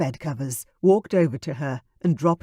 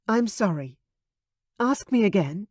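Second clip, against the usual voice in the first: apologetic; 5 semitones higher than usual. Acted. Veronica apologizes.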